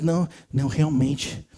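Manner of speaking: low, soft, slow fake earnestness; pretend-contrite, hushed admission; mock hypocrisy. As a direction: feign solemn agreement, dragging it out. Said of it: "com a hipocrisia de ficar falando".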